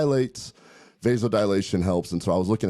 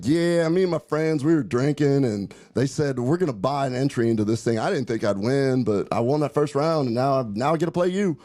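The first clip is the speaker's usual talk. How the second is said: Arkansas accent imitation; 4 semitones higher than usual. The speaker retells the Arkansas opponent's story in a mild Arkansas accent. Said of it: "a good old Little Rock, Arkansas accent".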